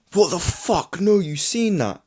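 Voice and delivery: high, stunned what-the-fuck reaction; shocked disbelief. Retold or imitated. Retelling his reaction to the boss, high shocked disbelief. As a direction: gasp it out as if caught totally off guard. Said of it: "My genuine reaction".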